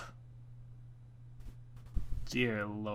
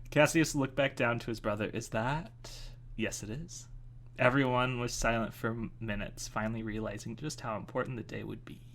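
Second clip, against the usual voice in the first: story narration. A narrator's reading. Reading a chapter to listeners, even story narration.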